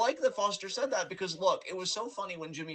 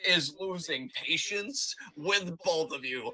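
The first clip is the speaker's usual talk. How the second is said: slow, laughing announcer delivery; Heyman impression; slower than usual. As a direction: draw it out while laughing. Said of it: "And he's like".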